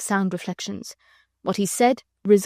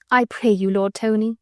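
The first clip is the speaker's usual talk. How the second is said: gentle sweet. Acted. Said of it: "in that gentle, sweet, musical voice".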